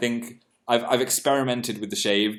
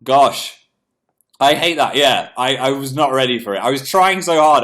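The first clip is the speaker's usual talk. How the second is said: excited gosh; 3 semitones higher, 7 dB louder than usual. Real, not acted. Recalling the air puff test.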